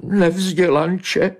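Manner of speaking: very high, wounded cat cry; offended wail. Acted. Offended she-cat calling after Bobeš, wailing. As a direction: wail after him, insulted. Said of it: "znělo žalostně z uražené kočičí duše".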